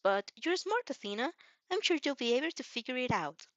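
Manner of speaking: put-on bright, helpful young hero showing off; Izuku voice. Izuku encouraging Athena.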